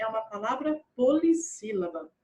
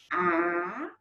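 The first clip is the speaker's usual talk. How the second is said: syllable by syllable; 5 semitones lower than usual. Shown as a demonstration. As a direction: separate each syllable for counting: A... pai... xo... na... da. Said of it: "quantas sílabas deu". ("Apaixonada" sílaba por sílaba, com pausas longas)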